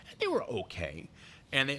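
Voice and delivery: ordinary delivery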